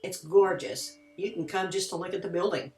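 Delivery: measured scripted voice-over with lively pitch swings; read-out intro, key words lifted; documentary narration. A narrator's reading. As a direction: narrate it like a haunted-history documentary.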